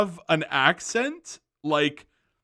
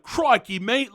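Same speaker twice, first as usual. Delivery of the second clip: put-on Australian accent, pitched up; 5 semitones higher, slower than usual. Shown as a demonstration. Vlogger showing how children copy parents, mock Australian accent. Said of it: "have an Australian acc-, accent".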